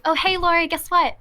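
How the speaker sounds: retold chirpy news-breaker; imitating excited manager. Manager calls the employee with news, excited.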